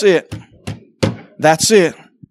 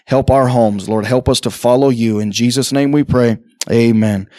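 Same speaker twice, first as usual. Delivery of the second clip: low, earnest prayer voice; 3 semitones lower than usual. Acted. Pastor praying before preaching, low and earnest. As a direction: pray it humbly to the Lord.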